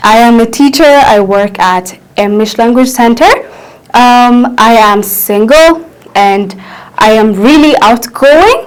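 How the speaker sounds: slow, clear self introduction; teacher modelling a self introduction slowly; slow model introduction. Shown as a demonstration. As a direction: present yourself slowly as an example. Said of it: "the first thing is it's always greeting".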